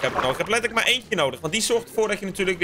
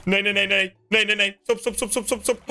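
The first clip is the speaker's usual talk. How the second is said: alarmed; 3 semitones higher than usual. Real, not acted. Floor getting ruined.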